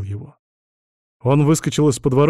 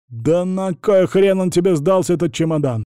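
hysterical wail; 6 semitones higher, 4 dB louder than usual. A narrator's reading. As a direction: wail it out, losing control. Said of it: "истерично взвыл лжеписатель". (истерично взвыл, выше и медленно)

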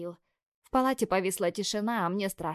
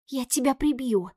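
louder, higher mock threat, half playful; hissing threat; 5 semitones higher, 5 dB louder than usual. A narrator's reading. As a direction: threaten him, only half serious. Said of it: "зашипела я".

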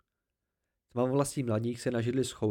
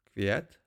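lower, rising query on "Květ"; questioning echo; 5 semitones lower than usual. A narrator's reading. Kvot querying Bast's word, "Květ" with a questioning rise. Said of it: "Přeptal se Kvot".

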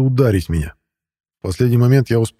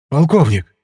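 higher, astonished exclamation; taken aback; 5 semitones higher, slower than usual. A narrator's reading. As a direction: repeat the rank in amazement. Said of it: "Из директора как будто выпустили воздух". (поражённый возглас, голос выше)

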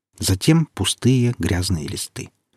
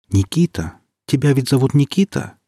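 calm and friendly; 6 semitones higher than usual. Acted. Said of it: "спросили спокойно и приветливо".

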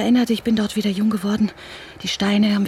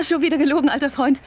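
mocking laugh; 4 semitones higher, faster than usual. Mocking her old rival on phone.

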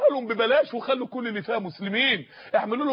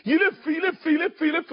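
raised pitch on each repeated يلف; insistent repetition; 5 semitones higher, slower than usual. Retold or imitated. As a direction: keep يلف going round and round, pitched high. Acting out the spider's circling. (تكرار يلف بإلحاح ونبرة عالية)

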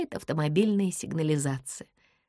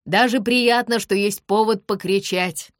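louder, teasing shout upward; shouting over traffic noise; calling out; 4 semitones higher, 6 dB louder than usual. A narrator's reading. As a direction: call up cheerfully to the balcony. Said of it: "повышает голос".

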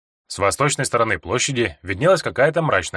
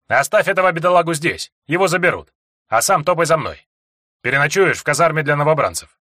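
commanding officer voice; 5 semitones higher, 4 dB louder than usual. Acted. Commanding officer gives orders.

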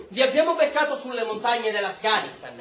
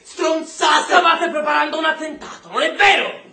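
angry shout; 3 semitones higher than usual. Acted. Interrogator shouting at the prisoner, furious. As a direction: hurl the accusation at him.

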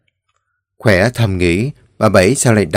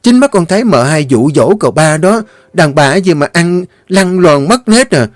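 vicious accusing maid; 6 semitones higher than usual. A narrator's reading. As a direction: egg the masters on to punish her. Maid demands harsh punishment.

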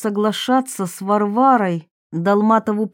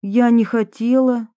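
raised pitch, mildly prickly confession; lightly voiced defensive Varvara; 4 semitones higher, 3 dB louder than usual. Varvara admits a youthful film to her accusers, mildly defensive. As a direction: confess with a touch of defiance. Varvara tells of Olga's plea.

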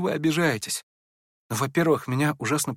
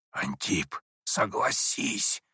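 low, soft, slow stage whisper; a clear prompting whisper; distinct whisper; 6 semitones lower, 7 dB quieter, much slower than usual. A narrator's reading. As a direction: hiss the prompt from behind a chair. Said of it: "скорым и явственным шёпотом".

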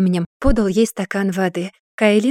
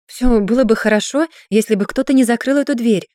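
louder insistent complaint; firm louder insistence; insisting; 3 semitones higher, 4 dB louder than usual. Acted. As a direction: dig in and insist. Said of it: "настаивала Кайлин".

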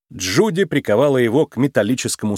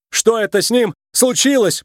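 raised, higher voice calling out while running; shouted question; 9 semitones higher than usual. A narrator's reading. A mock shout while running away. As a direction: Nick shouts the question to Judy while fleeing. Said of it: "прокричал Ник".

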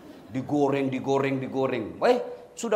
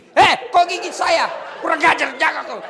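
put-on angry yelp at baby; 13 semitones higher, 13 dB louder than usual. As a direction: yell at a biting baby in mock fury. Mother bitten while breastfeeding. (teriakan marah yang dibuat-buat)

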